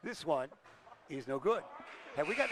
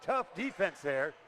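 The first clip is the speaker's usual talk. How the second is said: play-by-play; 3 dB louder than usual. Acted. Live play-by-play.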